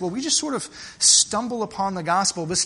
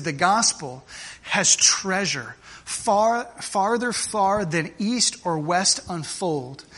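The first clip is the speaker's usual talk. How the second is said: slow, measured recitation with weighty pauses; solemn quotation reading; slower than usual. Acted. Preacher reading an old preacher's words to congregation, solemn and slow. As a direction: read it out phrase by phrase, slowly.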